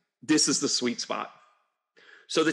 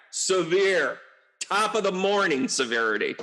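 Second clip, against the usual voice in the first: mock Irish accent; 4 semitones higher than usual. Jokey Irish greeting pun.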